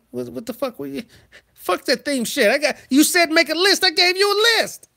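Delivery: high, loud outraged yell at mama; meltdown yell. Acted. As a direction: scream it like a betrayed kid. Melting down at mama.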